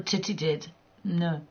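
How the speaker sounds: ordinary delivery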